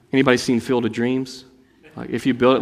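usual speaking voice

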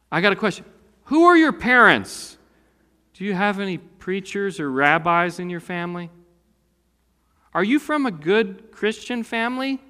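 a nosy gatekeeper quizzing someone's pedigree; prying interrogation. Pretend.

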